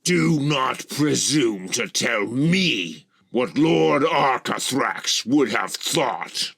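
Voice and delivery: high, loud, slow and commanding; imperious rebuke. A narrator's reading. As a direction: put them in their place, loudly. Dragoness rears up, rebukes him.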